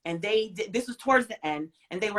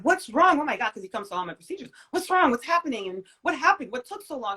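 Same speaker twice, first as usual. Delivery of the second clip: a hint of an alarmed father, higher and louder at first; worried dad; 4 semitones higher, 3 dB louder than usual. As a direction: ask like a scared dad rushing in. Worried dad questioning after procedure.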